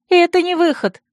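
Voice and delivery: high-pitched frantic protest; alarmed cry. A narrator's reading. Friend holds the heroine back from the window, crying out. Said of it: "вскричала Царья".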